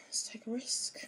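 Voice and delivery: hushed, daring whisper; conspiratorial whisper. Real, not acted. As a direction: whisper it like a little secret. Cutting bracelet, playful conspiracy.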